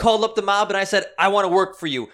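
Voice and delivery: high, loud impression of her tirade; ranting neighbor lady. Lady retells calling the mob.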